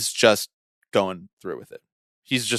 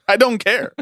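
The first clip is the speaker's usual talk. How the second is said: laughing; 12 semitones higher, 5 dB louder than usual. Real, not acted. Laughing after "sold, same team.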